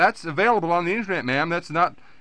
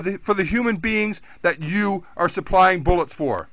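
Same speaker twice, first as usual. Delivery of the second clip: raised and higher, berating; heated lecture; 3 semitones higher than usual. Real, not acted. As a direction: scold her hotly. Caller berates agent.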